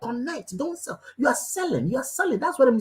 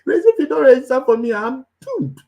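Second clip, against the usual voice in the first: mock pleading, higher-pitched; begging; 4 semitones higher, 4 dB louder than usual. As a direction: act out a desperate sales plea. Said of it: "You are begging people".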